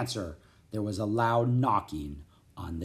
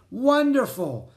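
high, loud, slowly drawn-out praise; delighted praise; 12 semitones higher, 6 dB louder, slower than usual. A narrator's reading. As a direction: exclaim with great pleasure. Merlin praises the children.

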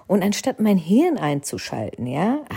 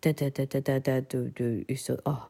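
shocked stammer; 5 semitones lower, 7 dB quieter than usual. Retold or imitated. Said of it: "Da war ich geschockt".

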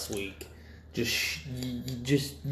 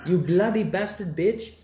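high, louder hammed-up insult; mock dub insult; 8 semitones higher, 6 dB louder than usual. Cohost adds a dub insult, high and louder. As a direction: spit it like a bad dub villain. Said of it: "English Indians just going at it".

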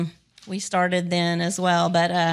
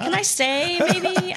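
wistful plea; 9 semitones higher, much slower than usual. Retold or imitated. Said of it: "I'm like".

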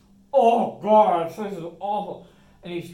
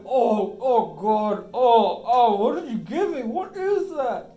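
panicked gasping; 6 semitones higher, 10 dB louder, slower than usual. Acted. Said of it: "and he's like".

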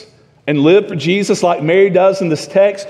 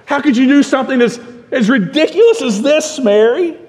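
scoffing scold; 5 semitones higher than usual. Retold or imitated. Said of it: "They were scoffing at her and scolding her".

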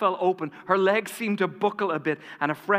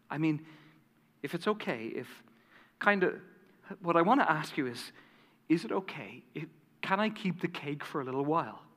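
softer, halting, hesitant request; slow and soft; 6 dB quieter than usual. Retold or imitated. Agnes asking Harry if she may keep the cake, soft. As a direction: ask timidly, afraid to impose. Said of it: "she slowly and softly said".

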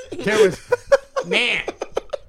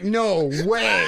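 laughing mock yell; 3 dB louder than usual. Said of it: "I fucking was like".

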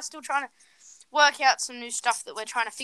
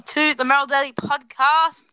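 announcer welcome; 7 dB louder than usual. Real, not acted. Announcing the return from break.

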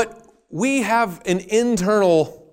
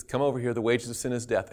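quiet stern command; 5 semitones lower, 6 dB quieter, faster than usual. Acted. God calling Lucifer forward.

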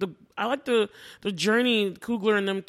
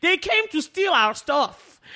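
slow, louder, high accusing; queen's accusation; 7 semitones higher, 4 dB louder, slower than usual. Retold or imitated. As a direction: accuse them slowly, like a queen. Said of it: "She's like".

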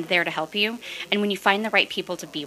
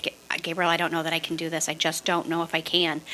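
much softer, defeated words to the coach; quiet despair; 2 semitones lower, 6 dB quieter than usual. Retold or imitated. Retelling her doubts to coach Gabriel, softer and defeated. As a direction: let the doubt drain the voice.

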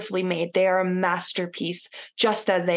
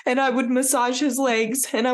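tender blessing; 2 semitones higher than usual. Retold or imitated. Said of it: "it's making me cry".

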